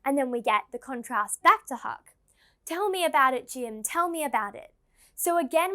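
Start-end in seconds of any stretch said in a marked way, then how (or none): 2.6-4.7 put-on excited childlike tone. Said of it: "we're getting the excited, childlike tone".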